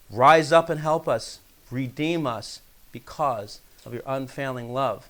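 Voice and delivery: measured, solemn Bible reading; scripture reading. Acted. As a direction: read the psalm out to the congregation. Reads the psalm aloud.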